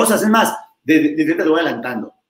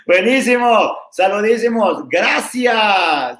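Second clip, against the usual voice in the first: cheerful shout-out; 4 semitones higher, slower than usual. Real, not acted. Greeting viewers loudly.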